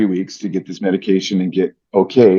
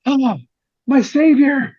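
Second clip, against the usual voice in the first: much higher, lightly voiced old friend; a hint of grateful Rick; slower than usual. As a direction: greet him like a savior. Rick greets the speaker warmly.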